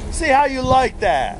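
loud high taunt, stress on how. Acted. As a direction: rub it in their faces. Taunting the taggers.

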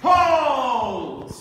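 loud, sharp call to stop; shouted command. Real, not acted. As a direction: bark the halt across the floor. Referee halting fencers.

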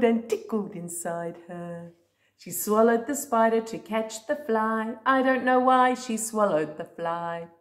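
singsong storybook read-aloud; reading to a toddler. Acted. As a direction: read it like a bedtime book. Reading a picture book to a child.

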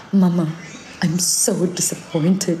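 slow mock child voice, drawn out; little boy's sad whine, lightly voiced; imitating son's accent. Mother imitating her little son's sad complaint, slow and drawn out. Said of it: "Dia punya accent of like".

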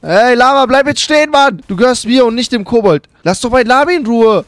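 loud call after a running llama. Real, not acted. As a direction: shout for the llama to stop. Calling after a fleeing llama.

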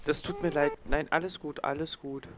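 soothing. Acted. Comforting a crying baby.

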